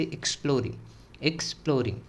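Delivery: "एक्सप्लोरिंग" begun like "एग्जाम"; short "iks" opening on "एक्सप्लोरिंग"; opening like exam. Shown as a demonstration. Teacher comparing exploring to exam, same opening sound. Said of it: "जैसे एग्जाम होता है ना वैसे".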